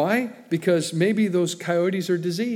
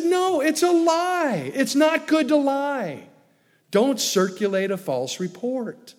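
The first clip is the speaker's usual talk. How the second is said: firm retold rebuke; 10 semitones higher, 4 dB louder than usual. Retells rebuking the lady.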